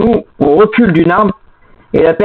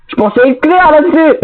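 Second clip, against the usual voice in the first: exasperated; 4 semitones higher than usual. Real, not acted. Scolding teammate over game rules.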